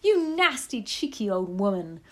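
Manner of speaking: angry shout. A narrator's reading. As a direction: shout the insult, outraged. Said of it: "shouted Missus Jenkins".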